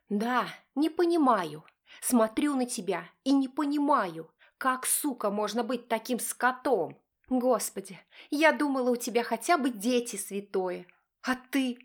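high accusing wife voice; angry wife. Acted. Wife accusing husband of cheating, high and angry.

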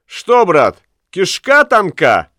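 high teasing jeer, "кишка" drawn out; mocking taunt. A narrator's reading. Ulenspiegel taunts the bargeman. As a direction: jeer at him. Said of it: "крикнул".

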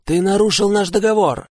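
furious at broken pact; angry accusation. A narrator's reading. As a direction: throw the accusation at him. Hero accuses the spirit.

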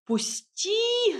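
высокий крик; завопить, вырываясь; вопль. A narrator's reading. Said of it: "завопила я". (вопль героини, гораздо выше)

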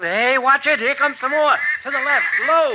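high, loud warning shouts; urgent calling out. Acted. Doc warning the hunters of incoming ducks, urgent loud shouts. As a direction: shout directions to the shooters fast.

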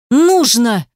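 loud, defiant single word; stubborn shout. A narrator's reading. Girl defying Ruslan, loud stubborn retort. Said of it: "упрямо возразила она".

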